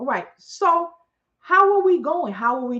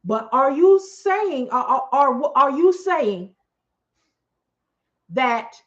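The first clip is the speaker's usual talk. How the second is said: stunned disbelief; 4 dB louder, slower than usual. Real, not acted. Stammering disbelief.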